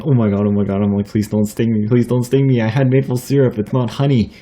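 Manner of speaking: mildly panicked pleading, rising as it goes; retold freak-out. Pleading with honeybees not to sting, mildly panicked. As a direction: replay a mild freak-out. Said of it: "I was just freaking out".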